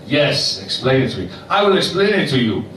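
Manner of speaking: rough, put-on Moroccan accent; mock Moroccan accent. Barber insists on explaining to his customer, rough Moroccan accent. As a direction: do a badly faked Moroccan accent. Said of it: "That was the accent".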